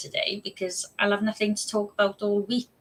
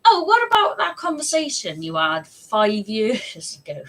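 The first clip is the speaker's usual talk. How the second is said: nagging inner voice; 4 semitones higher, 4 dB louder than usual. Retold or imitated. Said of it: "brain's going".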